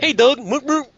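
high, squeezed nasal impression; pinched nose voice. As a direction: talk with the nose pinched shut. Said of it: "that's him squeezing his nose".

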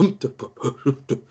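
imitated wealthy-person bumbling noises; humming and jumbling. Game master showing how particularly wealthy people froth, humming and jumbling. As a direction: huff and froth in wordless half-syllables. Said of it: "humming and jumbling and, and frothing about".

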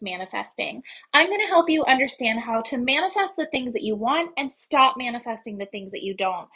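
bright-paced, lifted presenter delivery; podcast intro. Acted. Host welcomes listeners to a spirituality podcast, upbeat intro read. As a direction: pitch the show to new listeners, lively and emphatic.

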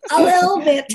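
high, loud mimicked British accent, laughing; teasing mock British. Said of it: "May, may British accent ka na?".

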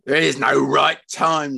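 angry, emphatic dismissal; snarling. Acted. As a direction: snarl it at your wife. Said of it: "snarled Fred".

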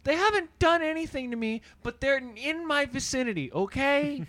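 mock-indignant, prissy complainer; lightly hammed-up grievance; white complainer. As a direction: insist on it with put-on affront. Acting the fearful white complainer.

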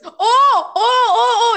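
loud laughing oh oh oh; laughing exclamation. Real, not acted. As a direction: burst out laughing in recognition. Sudden realization, laughing.

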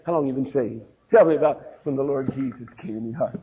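gentle asking. Retold or imitated. Preacher gently asking another preacher about salvation, softly. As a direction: ask it kindly. The kind way to ask.

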